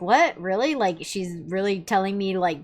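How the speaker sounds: mildly acted disbelief; questioning, lifting at the end as if stunned; taken aback. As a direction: voice a puzzled, taken-aback reaction. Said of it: "taken aback by that".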